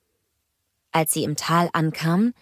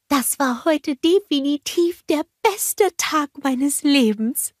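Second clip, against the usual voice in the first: higher, slow happy snowman; blissful snowman; Olaf's voice; 9 semitones higher, slower than usual. A narrator's reading. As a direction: savour the best day ever. Olaf voiced in story.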